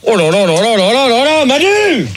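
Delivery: rising to a high call; exasperated appeal to a colleague for help; worked-up exasperation. Real, not acted. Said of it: "calme-toi".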